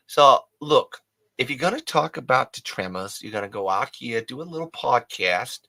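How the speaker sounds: attempted Maine accent. Host teasing Daphne about Maine, attempted Maine accent. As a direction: put on a hammy New England accent. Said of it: "I was trying to do a Maine accent".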